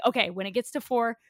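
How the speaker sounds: fast, loud, giddy scheming; excited plotting. Retold or imitated. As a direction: race through the plan with glee. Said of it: "we were like".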